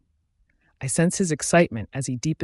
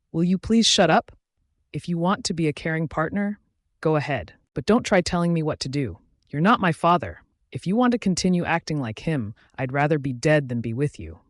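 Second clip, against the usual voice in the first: yelling; 3 semitones higher than usual. Acted. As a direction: throw it at him in anger. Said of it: "I yell".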